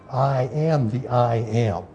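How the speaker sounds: slow, weighty "I am the I am"; emphatic stress. Shown as a demonstration. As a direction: stretch out "I am the I am" deliberately, word by word. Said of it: "is what he's stressing here".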